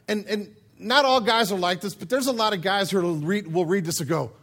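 ordinary delivery

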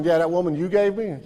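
sneering, blaming tone on that woman; bitter mock blame; accusing Adam. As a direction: point the finger at God and wife. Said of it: "Now he's going".

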